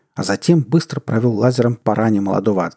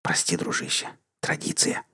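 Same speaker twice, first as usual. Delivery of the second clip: soft unvoiced apology; hushed, breath-only whisper; 4 semitones lower, 10 dB quieter than usual. A narrator's reading. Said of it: "прошептал тот".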